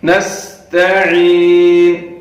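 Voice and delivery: نستعین with a sharp whistling s, slow; whistling sin. Shown as a demonstration. Teacher modelling the sin. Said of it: "سیٹی کی آواز نکلنی چاہیے".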